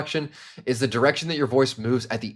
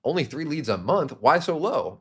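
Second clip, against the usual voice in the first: lightly challenging, disbelieving question; skeptical; 4 semitones higher than usual. Shown as a demonstration. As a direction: question it as if slightly taken aback. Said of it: "Third is skepticism or skeptical".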